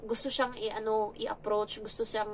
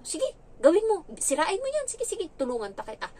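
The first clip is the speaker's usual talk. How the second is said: mock-cheerful high egging on; sarcastic encouragement; 7 semitones higher than usual. Helper to the naughty child, sarcastically cheering him on. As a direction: egg the child on with fake enthusiasm.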